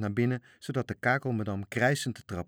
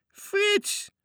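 very high, loud shout of the name; 6 dB louder than usual. Acted. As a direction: yell across the water at an old mate. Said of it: "schreeuwden de matrozen". (matrozen schreeuwen Frits toe)

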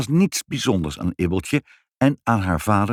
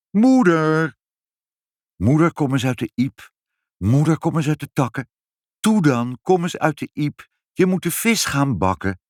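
calling out; 5 semitones higher than usual. A narrator's reading. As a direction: call up to someone high in a tree. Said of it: "Nu tegelijk roepen".

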